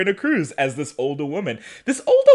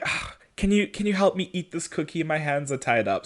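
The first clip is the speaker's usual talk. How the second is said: frail grandma; 7 dB quieter than usual. Retold or imitated. Old prisoner luring Bonnie closer, soft and helpless. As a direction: sound frail to lure her close.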